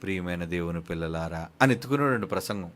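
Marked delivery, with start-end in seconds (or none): 0.0-1.5 low, soft, calm preacher's opening; gentle opening. Retold or imitated. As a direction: ease into the sermon softly, like a mild pastor. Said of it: "నెమ్మదిగా మాట్లాడతారు". (నెమ్మదిగా, మెల్లగా ప్రసంగం మొదలుపెడుతూ)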